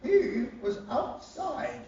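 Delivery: a lightly voiced Queen dismissing it; Queen impression. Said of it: "She's like".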